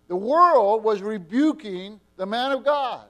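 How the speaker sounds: loud, driving pulpit sermon with punched words; fiery preaching. Acted. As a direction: preach it hard to the congregation. Preaching at full force.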